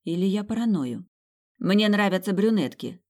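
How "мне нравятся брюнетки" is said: louder mock-manly declaration; girl posing as a man, loud declaration; loud boasting. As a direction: announce it loud enough for the doorman to hear. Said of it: "пробасила я так громко".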